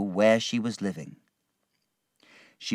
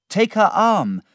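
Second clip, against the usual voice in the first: urgent order; 12 semitones higher, 8 dB louder than usual. Acted. Urgent order during struggle.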